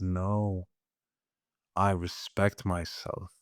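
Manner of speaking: softly, a quiet inner vow to oneself; quiet self-respect. Pretend. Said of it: "That anger is holy when it says".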